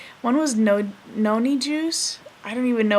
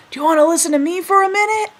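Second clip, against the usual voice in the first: put-on higher and louder old man, no real question; imperious grandpa; 8 semitones higher, 7 dB louder, faster than usual. Grandpa opening every talk, commanding old-man voice. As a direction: make it a demand dressed as a question. Papu's habitual conversation opener.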